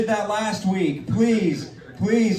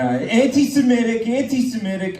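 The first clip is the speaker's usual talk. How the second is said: higher-pitched playful accusation; raised-pitch comic protest; mock outrage; 4 semitones higher than usual. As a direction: call it out in pretend offence. Mock accusation after an offensive joke.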